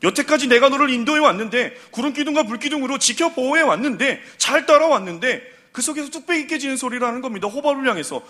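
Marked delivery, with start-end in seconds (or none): 0.0-5.6 mild voice of God. Retold or imitated. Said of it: "하나님이 그 모세의 말을 들으셨을".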